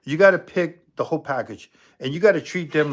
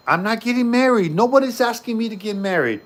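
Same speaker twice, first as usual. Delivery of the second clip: higher, louder, fed-up protest; exasperated; 7 semitones higher, 5 dB louder than usual. Acted. Talking back to jealous Emily, exasperated and loud. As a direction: snap back at her, fully exasperated.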